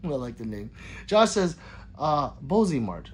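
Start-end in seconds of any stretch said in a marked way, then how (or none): 2.5-3.1 "Bozy Mart" with Bozy rhyming with cozy; long o in Bozy. Shown as a demonstration. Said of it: "not Bozzy".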